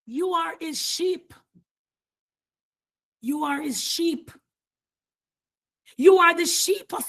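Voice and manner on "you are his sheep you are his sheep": much softer, gently restated; soft repeat. Real, not acted. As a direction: drop the voice and say it tenderly. Same line repeated softly.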